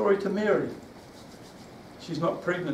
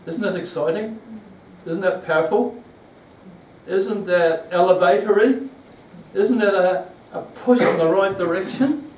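rousing preaching; 3 semitones higher, 6 dB louder than usual. Real, not acted. Rousing congregation with questions.

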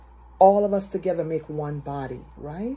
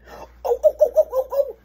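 very high, loud string of oohs; high giddy whooping; childlike excited squeals; 6 dB louder than usual. Retold or imitated. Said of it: "carrying on like a child".

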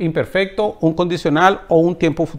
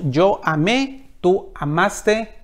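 slow model recitation; 3 dB quieter, much slower than usual. Shown as a demonstration.

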